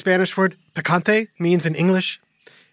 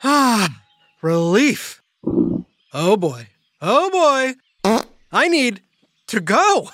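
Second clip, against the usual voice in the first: mouth on fire; 2 semitones higher than usual. Real, not acted. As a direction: mouth on fire, gasping for milk. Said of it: "My mouth was on fire".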